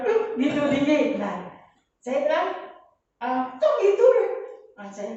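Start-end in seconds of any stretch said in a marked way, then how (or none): 0.0-0.3 sudden high-pitched outburst; imitated raised tone. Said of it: "Kadang-kadang langsung nada". 3.2-4.1 high, louder mock protest; retold startled objection. Mother challenging the raised tone.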